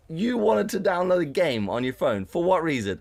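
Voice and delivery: high-pitched, disbelieving interrogation; incredulous. Retold or imitated. Friend grilling him about his download, incredulous. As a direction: question him as if it makes no sense. Retells her questioning him.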